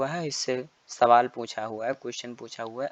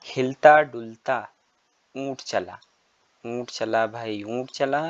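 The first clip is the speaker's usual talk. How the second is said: poem recitation. Shown as a demonstration. Teacher reciting a camel poem to young pupils, sing-song.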